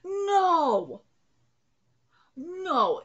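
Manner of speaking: shout. Real, not acted. Reactor protesting on-screen death.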